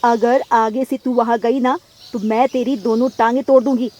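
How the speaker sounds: loud, threatening mother; angry threat. Acted. (ऊँची आवाज़ में धमकाती माँ)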